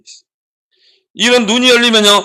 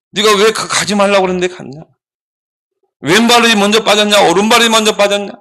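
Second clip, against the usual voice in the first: scolding. Acted. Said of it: "막 책망을 하는 거야".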